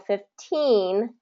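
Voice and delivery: put-on fifteen slowly with a sharp T, stress on teen; clear T. Shown as a demonstration. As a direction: hold fifteen's T crisp. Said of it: "have the T sound".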